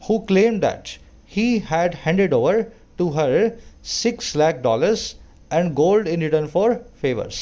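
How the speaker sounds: slow, deliberate reading of an English passage; careful classroom read-aloud; slow news reading. Acted. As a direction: read each phrase out slowly for learners. Reads news passage aloud slowly.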